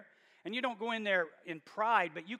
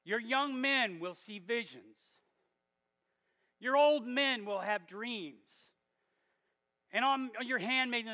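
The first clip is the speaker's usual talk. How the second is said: Peter's prophecy preached out in a raised voice; bold proclamation; 3 semitones higher than usual. Retold or imitated. Peter quoting the prophet Joel to the crowd, boldly proclaiming. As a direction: declare the prophecy boldly, in measured phrases. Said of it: "So Peter boldly".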